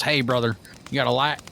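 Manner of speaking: light imitation of a Southern accent. Cowboy-hatted stranger asking for a light, Southern accent. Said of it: "with a Southern accent".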